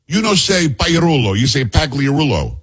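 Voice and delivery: put-on slow, lightly Italian-accented scolding; a hint of a bold Italian woman correcting him; imitating Italian accent. Italian woman corrects the anchor's name, slow hint of Italian accent. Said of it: "a thick, um, Italian accent and says".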